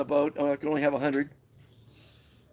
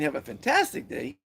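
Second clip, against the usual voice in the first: energetic; 8 semitones higher than usual. Shown as a demonstration. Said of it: "is a lot more energy and positivity".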